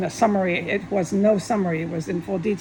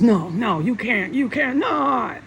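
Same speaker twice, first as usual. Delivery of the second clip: forbidding refusal; 3 dB louder, slower than usual. Retold or imitated. Imitating Jesus forbidding an online post, insistent refusal. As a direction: act out someone laying down a ban. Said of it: "he's the one who says".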